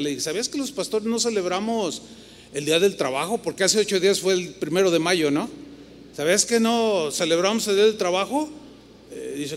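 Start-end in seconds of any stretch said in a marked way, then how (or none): 0.2-8.5 lightly sarcastic teasing question; a touch of sarcasm. Retold or imitated. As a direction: tease him with a dry jab. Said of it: "de una manera un poco sarcástica".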